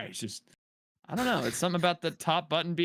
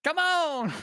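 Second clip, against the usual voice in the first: Dale Jr. impression; 3 dB louder than usual. Mocking Dale's catchphrase.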